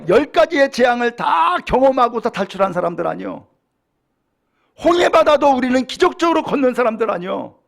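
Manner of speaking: Moses mildly scolding the people; acted rebuke. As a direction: voice an indignant leader's reproach, moderately heated. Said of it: "책망할 수가 있잖아요".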